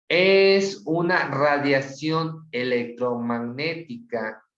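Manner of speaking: slow and deliberate, each word laid out; slow dictation. Shown as a demonstration. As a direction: dictate it slowly so students can write. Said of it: "Si salgo, fíjense bien".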